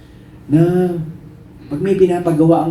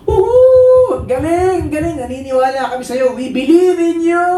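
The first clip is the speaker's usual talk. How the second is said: high, loud whoops of support; cheering crowd; 13 semitones higher, 4 dB louder than usual. Acted. Audience cheering on a tightrope walker, excited high cheering. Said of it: "palakpakan mo ang mga tao".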